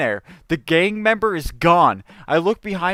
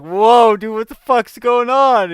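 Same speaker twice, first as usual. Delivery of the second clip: higher, louder startled cry of a man at gunpoint; startled whoa; 4 semitones higher, 5 dB louder, slower than usual. Retold or imitated. Merrick held at gunpoint, startled and loud. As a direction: jump at the sight of the gun. Kidnapped Merrick reacts to gun.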